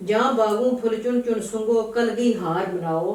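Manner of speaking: emphatic opening, slowing at the end; verse recitation. Acted. Reciter reading garden verse to a listener, verse recitation. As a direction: declaim the garden verse with weight.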